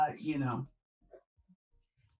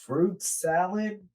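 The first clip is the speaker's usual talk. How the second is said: put-on Australian accent; much slower than usual. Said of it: "Does that sound Australian?".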